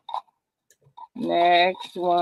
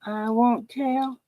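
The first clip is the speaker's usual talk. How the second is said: teasing; 5 semitones higher, slower than usual. Pretend. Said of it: "teasing secret, sing-song".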